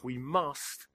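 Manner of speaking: usual speaking voice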